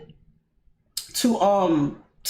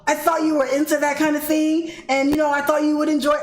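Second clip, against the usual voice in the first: raised pitch, quick apologetic man's voice; apologetic guy; 5 semitones higher than usual. Retold or imitated. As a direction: lightly mimic his frantic sorry. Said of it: "And he's like".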